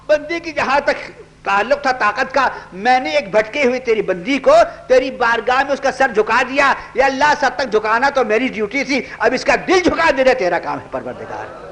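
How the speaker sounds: high, earnest prayer with tears in the voice; tearful prayer. Acted. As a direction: plead with God, moved to tears. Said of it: "آنکھوں میں آنسو ہے اور فرمایا".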